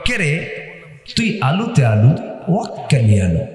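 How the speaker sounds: a hint of Bogura street dialect; Bogura rickshaw-puller speech. Preacher answering the Noakhali audience in Bogura street dialect. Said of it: "ঠিক ওই ভাষায় একটা বাক্য".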